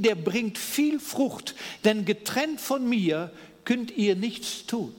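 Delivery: measured, solemn Bible reading with long pauses; scripture reading. Acted. Pastor reading John fifteen aloud to the congregation, solemn and measured.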